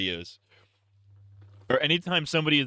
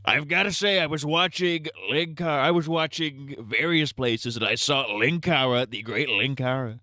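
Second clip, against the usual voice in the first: raised, drawn-out presidential parody; Trump impression; 3 semitones higher than usual. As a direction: do a mock Trump addressing a crowd. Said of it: "doing a Trump impression".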